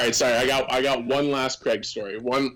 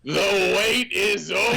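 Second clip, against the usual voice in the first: higher triumphant PA call; lightly voiced announcer reveal; 8 semitones higher, 3 dB louder than usual. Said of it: "And he turns on his mic and goes".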